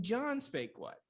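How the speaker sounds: slow, JOHN pitched high; JOHN as the contrasting word; stress on JOHN. Shown as a demonstration. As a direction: punch the name John, lighter on spake what. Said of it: "The emphasis tells you what's going to change".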